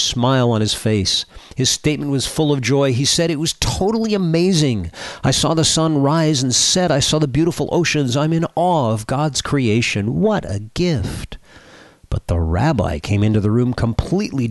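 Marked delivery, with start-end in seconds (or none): 3.3-11.4 joyful priest. Acted. Priest's joyful quote in joke.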